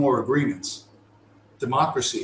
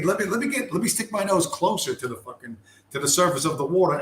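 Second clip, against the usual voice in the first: naive curious zebra; 5 semitones higher than usual. Acted. Zebra edging closer to the water.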